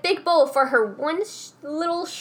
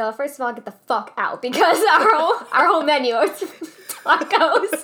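retold comeback; 2 semitones higher than usual. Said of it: "I said".

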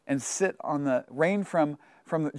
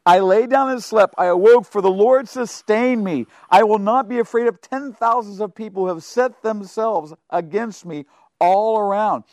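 emphatic reading; 3 semitones higher, 6 dB louder than usual. Real, not acted. Reading psalm with force.

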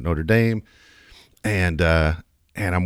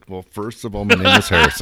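laughing mock correction; 3 dB louder than usual. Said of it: "and he's just like".

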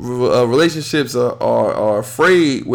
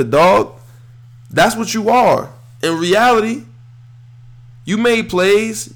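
pitched up and worked up, needling a traitor; a fan's raised-pitch scolding of Jarvis; heated rant; 5 semitones higher than usual. Real, not acted. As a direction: call him out, voice climbing. Ranting at departed player Jarvis.

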